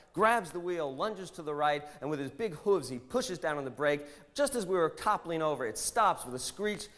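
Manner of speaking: high, eager storytelling as the pig owner; breathless tale. Retold or imitated. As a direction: gush about the heroic pig. Pig owner tells rescue tale.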